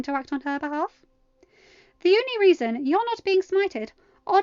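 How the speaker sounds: furious mother goddess on the phone; menacing threat. A narrator's reading. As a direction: threaten her with divine menace.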